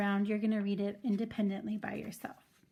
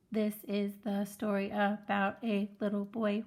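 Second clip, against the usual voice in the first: put-on "This is the story about a little boy." read in a mild, even robot drone. Shown as a demonstration. Teacher shows first graders bad robotic reading. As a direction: drone each word evenly like a robot. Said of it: "so we're not reading like a robot".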